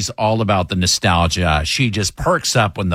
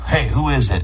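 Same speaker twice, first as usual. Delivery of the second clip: off-putting phone answer. Retold or imitated. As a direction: mimic a kid's curt, discourteous phone answer. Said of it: "the who is it thing is off-putting".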